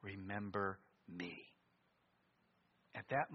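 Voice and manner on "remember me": tender dying request; humble plea. Acted. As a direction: beg quietly for mercy. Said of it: "he says".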